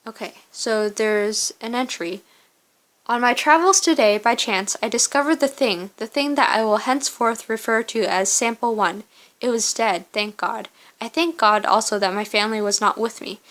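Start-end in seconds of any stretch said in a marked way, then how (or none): 3.1-13.4 measured first-person diary reading; journal narration. Acted. Survivor recording the day's discovery in a journal, journal narration. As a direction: read the entry out as a storyteller would. Reads journal entry aloud.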